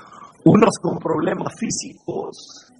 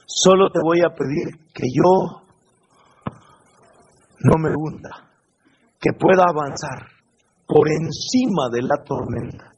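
calm brave prayer; 2 semitones lower than usual. Pretend. Peter asks to walk on the water, calm and confident. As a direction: pray like a brave man, unhurried. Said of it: "Él le dijo".

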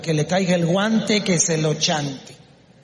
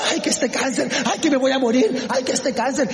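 raised, hammed-up wailing complaint; mock lamenting; 5 semitones higher than usual. Preacher imitating the sick bemoaning cancer, mock lamenting. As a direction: imitate someone moaning over their illness. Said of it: "gente que lamenta su enfermedad".

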